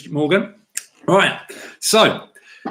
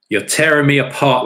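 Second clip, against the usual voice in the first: loud, raised cry of anguish, hammed up; dramatic movie outburst; 5 semitones higher, 5 dB louder than usual. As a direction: cry out the movie line, punching TEARING. Acts anguished movie quote.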